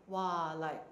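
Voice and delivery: high whiny complaining fiancée; complaining girl. Retold or imitated. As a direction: whine like a fed-up bride. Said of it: "you know how girls always complain".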